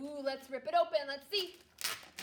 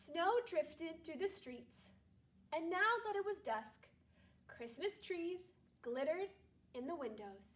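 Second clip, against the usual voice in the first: calm read-aloud storytelling voice; story narration; 3 dB quieter than usual. Acted. Teacher reading a Christmas story aloud to her class, calm narration. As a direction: read it gently to a second-grade class.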